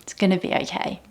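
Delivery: soft, fading self-comfort; tender whispered reassurance; soothing reassurance. Shown as a demonstration. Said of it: "I love those words to myself".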